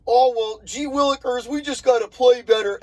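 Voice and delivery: lightly mock a goody-goody optimist; Ned Flanders. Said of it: "this Ned Flanders ... attitude".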